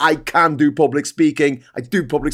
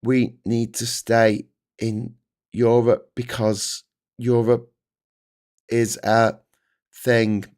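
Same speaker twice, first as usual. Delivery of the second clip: halting speaker; 4 semitones lower than usual. Retold or imitated. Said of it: "and they'll say".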